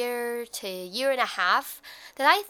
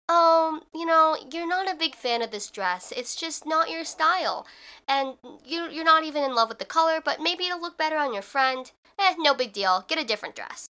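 higher, easygoing, gently reassuring; nicer inner voice; 5 semitones higher than usual. Retold or imitated. Kinder inner voice about a dress at the mall, mildly reassuring. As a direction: let yourself off lightly, as a kinder inner voice. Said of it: "making the voice nicer to me".

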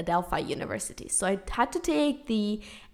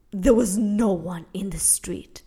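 eerie whisper. Acted. Eerie empty street storytelling.

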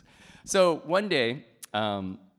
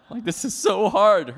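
slow, high, loud mock complaint; mock exasperation; 9 semitones higher, 12 dB louder than usual. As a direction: drag out the hammed-up grievance. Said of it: "I got so angry".

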